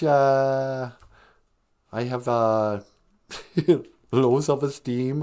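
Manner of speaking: lightly mocking Spanish-accented halting English; fake Spanish accent. Wife caught pretending she's from Spain, fake Spanish accent. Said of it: "she would speak with a fake Spanish accent".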